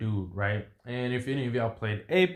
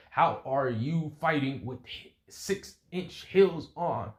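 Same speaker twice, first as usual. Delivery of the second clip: slow, rising higher on the heels; incredulous; 4 semitones higher, slower than usual. Acted. Fighter questions opponent in high heels mid-fight, incredulous. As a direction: space out the words in disbelief.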